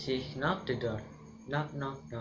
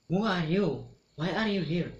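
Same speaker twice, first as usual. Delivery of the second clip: higher, louder startled questions; 5 semitones higher, 5 dB louder than usual. Acted. Dwarf confronting sleeping stranger, startled and loud. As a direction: demand to know who she is.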